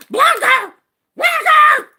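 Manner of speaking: high, loud shouted command; imitated shout. Retelling how the streamer went off, loud high shouting. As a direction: shout it high like she's losing it. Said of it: "the way she went off".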